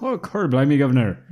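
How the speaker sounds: loud, high Cockney exclamation; Cockney accent. Retold or imitated. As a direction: cry out like a cheeky Cockney. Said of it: "that kind of thing".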